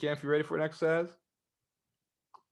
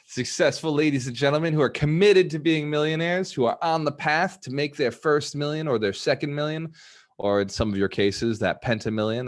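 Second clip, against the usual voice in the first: rousing praise; 3 semitones higher, 4 dB louder than usual. Real, not acted. Rallying the audience with praise.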